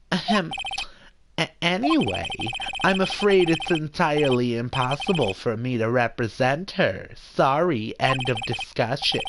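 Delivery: lightly voiced Jewish mother as lawyer; a hint of Jewish mother, self-important. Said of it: "I'll definitely do that voice a little bit".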